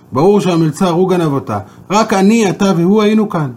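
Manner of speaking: king brushing off the rabbi's question; indignant king. Acted. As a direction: hammer home that only three were here. King insisting waiter is guilty.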